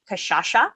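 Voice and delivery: kashasha with sh twice, lifted at the end; friend's mispronunciation. Retold or imitated. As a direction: quote a friend's "kashasha", second sh for s. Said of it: "one of my friends calls it".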